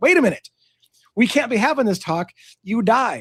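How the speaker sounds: urgent, high, startled, blurted out.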